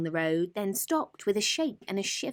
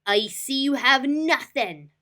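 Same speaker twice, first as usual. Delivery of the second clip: louder, higher grumble; complained; 8 semitones higher, 8 dB louder than usual. Acted. Rat complaining to the duck, grumbling. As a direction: grumble at the empty-handed duck. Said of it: "the rat complained".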